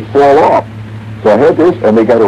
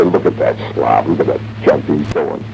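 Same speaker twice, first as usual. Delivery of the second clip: lightly voiced low, grumbling viewer; a hint of a scornful couch critic, pitched down; mock viewer complaint; 6 semitones lower than usual. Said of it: "So don't sit there and say".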